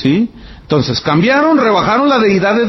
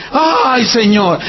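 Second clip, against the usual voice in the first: praising exclamation; 4 semitones higher, much slower than usual. Retold or imitated. Praising God.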